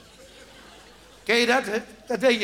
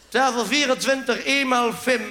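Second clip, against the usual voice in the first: calling out order; 3 semitones higher, 5 dB louder than usual. Acted.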